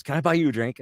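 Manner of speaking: high-pitched friendly offer; Tom Kenny. Retold or imitated. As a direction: imitate a cartoon actor offering a treat. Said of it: "And he goes".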